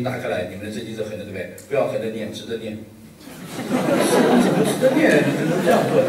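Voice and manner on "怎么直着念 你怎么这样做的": incredulous. Retold or imitated. Shocked reaction to pastor.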